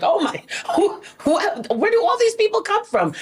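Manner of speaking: high, quick astonished squeal; amazed disbelief. Retold or imitated. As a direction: rush it out high, stunned. Retold amazement at audience size.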